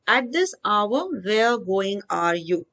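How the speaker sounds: slow, word by word, reading the scrambled order; slow jumbled reading. Shown as a demonstration. Teacher reads the scrambled words to the class, slowly. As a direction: read the jumbled words out slowly as they stand. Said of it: "So, where are you going at this hour?".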